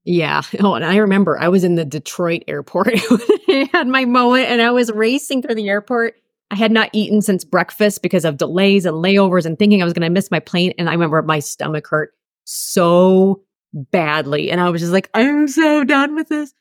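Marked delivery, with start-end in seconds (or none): 0.6-8.0 laughing through the memory. Real, not acted. Laughing while recalling airport. 15.1-16.5 high, slow exasperated groan of a line; fed up. Retold or imitated. Exhausted in airport, fed up.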